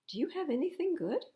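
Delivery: put-on high girl's voice asking. A narrator's reading. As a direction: ask like a hopeful little girl. Wilma voiced in read story.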